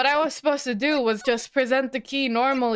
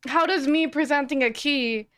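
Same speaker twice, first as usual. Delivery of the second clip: annoyed; 5 semitones higher than usual. Real, not acted. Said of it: "I'm a little annoyed".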